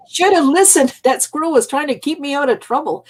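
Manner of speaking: put-on a high, loud, rueful old man's lament; lightly voiced elder regretting; grandpa's rueful words. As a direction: sigh it out as the grandpa who should have listened. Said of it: "He said".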